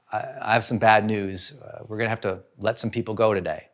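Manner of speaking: low, soft, reluctant announcement; subdued bad news. Boss telling staff about layoffs, subdued. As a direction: break it to them quietly.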